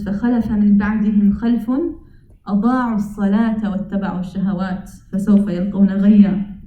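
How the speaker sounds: very fast, flowing Arabic chant; Quranic recitation. Acted. Teacher quoting the next verse to his listeners, rapid recitation. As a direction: rattle off the verse as practised recitation.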